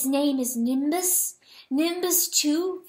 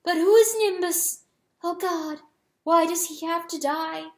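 high, emphatic, building tirade; anguished protest; 6 semitones higher, 4 dB louder than usual. A narrator's reading. Hen protesting that others choose and she endures, anguished. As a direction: plead and accuse at raised pitch. Hen's anguished outburst at her husband.

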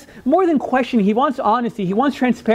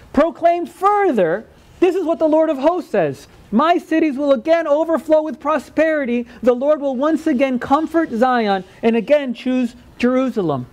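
raised, ringing pitch for God's decree; scripture proclamation; 3 semitones higher than usual. A narrator's reading. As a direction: proclaim the verse to the congregation.

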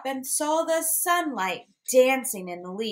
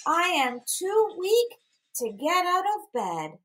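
grandmother's voice; 9 semitones higher than usual. A narrator's reading. Grandmother answers from bed.

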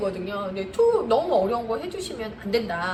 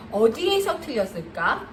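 slow, curious "어디에서 틀렸을까?" rising at the end; gentle question. Shown as a demonstration. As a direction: ask it gently and wait. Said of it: "이렇게 해주시면 안 되고".

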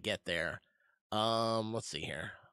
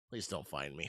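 hushed, pleading and much softer; whispering while hiding; 6 semitones lower, 8 dB quieter than usual. Pretend. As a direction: breathe it low so nobody hears. Hoping pirates miss the ship.

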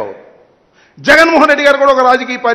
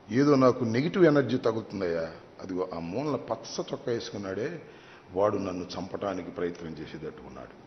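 mock paranoid fear; 17 dB quieter than usual. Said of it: "అంట, అంట".

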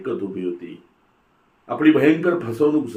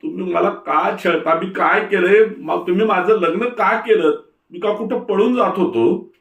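much higher, louder anguished protest; raised voice; 9 semitones higher, 4 dB louder than usual. A narrator's reading. Son shouting back at his father, high and pleading. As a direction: fling the questions back in despair. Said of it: "एकदम आवाज चढवून बोलू लागला".

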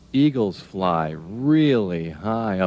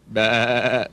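goat bleat; 3 semitones higher than usual. Pretend. Goat noise mid-sentence.

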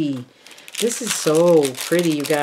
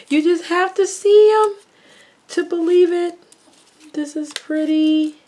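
high, loud delighted gush; gushing over pretty flowers, high and loud; excited squeal; 13 semitones higher, 7 dB louder than usual. Real, not acted.

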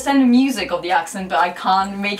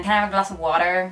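quick, lower American accent; 4 semitones lower, faster than usual. Shown as a demonstration. Learner getting back into American speech, American accent. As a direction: ask it like an American. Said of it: "get back into an American accent".

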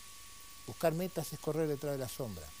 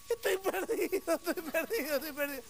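despairing whine; 12 semitones higher than usual. Acted. Sailor still lost as the sky closes, high mock wailing. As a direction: whine it high, comically hopeless. Sailor wails once more.

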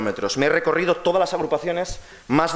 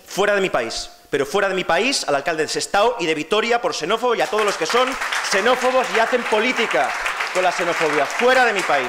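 raised, higher-pitched rallying cry; proud shouted denunciation; 4 semitones higher than usual. Real, not acted. Outgoing leader denouncing xenophobic politicians to the party, proud rallying shout. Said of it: "me siento muy orgulloso de gritar".

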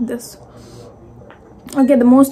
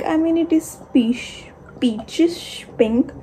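whispering; 5 semitones higher, 6 dB quieter than usual. Real, not acted. Surprised reaction to juice color.

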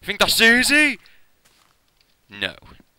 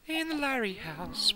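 cooing; 9 dB quieter, slower than usual. Pretend. Cooing to pet.

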